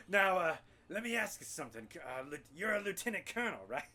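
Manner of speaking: lightly voiced talk-show host; Larry King. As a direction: ask it like an old TV interviewer. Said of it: "by the name of Larry King".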